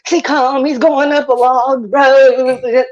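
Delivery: lightly voiced police radio call, slow; a hint of a cop reporting over the scanner, slow; imitating a cop radioing dispatch, drawn out. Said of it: "this is how it sounded".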